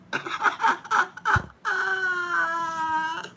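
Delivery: high shrieking burst of laughter. Real, not acted. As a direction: crack up helplessly, way up high. Recalling laughing fit.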